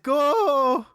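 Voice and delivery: super slow sleepy sloth; Sloth from The Goonies. Retold or imitated. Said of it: "That's my Sloth impression".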